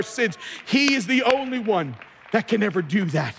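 fervent preacher in steady flow; impassioned preaching. Real, not acted. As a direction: press each point home to the congregation. Preaches at full pitch.

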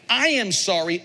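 sincere, deliberate I am sorry; mean every word of it; owned apology. Shown as a demonstration. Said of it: "owns it".

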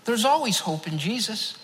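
a man answering a panicked stranger with a gentle smile; smiling calm reply. Retold or imitated. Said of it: "I just smiled back at him and said".

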